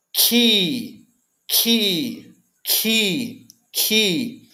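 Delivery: "ki" with a puff of air on the K; "ki" with a strong burst of air; aspirated ki. Shown as a demonstration. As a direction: say "ki", breathing out on the K. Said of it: "como se fosse um capa aspirado".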